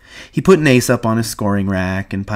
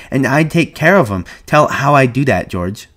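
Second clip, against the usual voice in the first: put-on higher, louder childlike pleading; eager; 6 semitones higher, 5 dB louder than usual. A narrator's reading. Lenny asks George to tell about rabbit care, eagerly. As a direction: press keenly to hear more. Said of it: "Lenny said eagerly".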